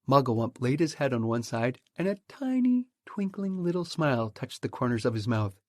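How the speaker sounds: usual speaking voice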